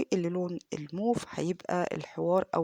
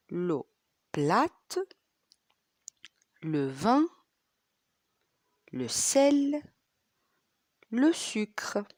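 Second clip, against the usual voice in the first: whisper; 3 semitones higher, much slower than usual. Shown as a demonstration. Teacher whispering a vocabulary word to the class. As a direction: let the words fall to a whisper.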